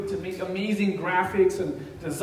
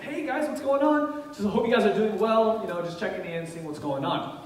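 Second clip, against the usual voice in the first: bright, friendly hello to the chat, pitched up at the start; cheery greeting; 3 semitones higher than usual. Retold or imitated. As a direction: play it friendly and upbeat.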